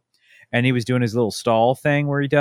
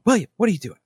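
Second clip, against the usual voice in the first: mock yell; 11 semitones higher, much faster than usual. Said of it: "so she yells at him".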